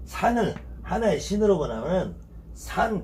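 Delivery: ordinary talk, nothing marked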